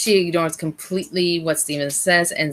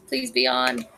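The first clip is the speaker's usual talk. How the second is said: soft high-pitched plea; high soft pleading; 7 semitones higher, 5 dB quieter than usual. Real, not acted. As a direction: beg quietly, up high. Begging the stream to work.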